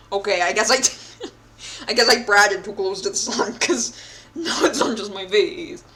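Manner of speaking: giggly amused complaint; laughing. Real, not acted. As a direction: crack up at yourself. Laughs at situation.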